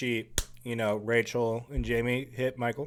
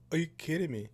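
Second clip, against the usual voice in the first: incredulous; 5 semitones higher, 4 dB quieter than usual. Acted. Voicing husband's face on screen.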